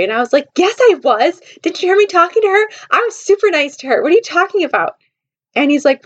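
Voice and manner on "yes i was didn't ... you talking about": high-pitched, indignant denial; defensive protest. Retold or imitated. Woman insisting to Josh she was nice, defensive protest. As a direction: act out protesting innocence, voice raised. Defends herself against accusation.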